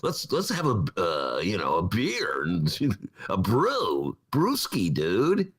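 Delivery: easy stoner-bro drawl, just hinted; a hint of a beer-loving frat bro. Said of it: "bro-like character who would love Wrigley Field".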